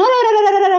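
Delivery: high-pitched imitation of his yelling; mock hollering. Farm worker retelling how Ramdas came yelling at them, mock hollering. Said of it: "आता बोंबलत आले तिकडून".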